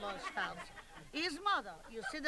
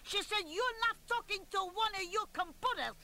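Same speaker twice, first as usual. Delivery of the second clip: higher, firm mock scolding; scolding mother; 5 semitones higher than usual. Annie scolds her son for bragging, mock stern. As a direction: put the big shot in his place. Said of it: "So Annie said to him".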